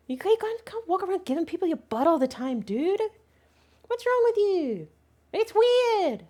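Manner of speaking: high pet-voice telling-off; mock scolding. Teasing the dog about his butt, high mock scolding. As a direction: pretend to chide the dog, pitched high.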